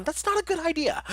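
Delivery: giggling at his own tongue slip; laughing. Real, not acted.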